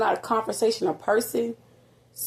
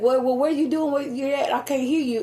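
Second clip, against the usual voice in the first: higher-pitched imitation of a confused caller; retold phone caller; 5 semitones higher than usual. Son on the phone can't hear his mother, lightly imitated confusion. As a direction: lightly act out someone who can't hear.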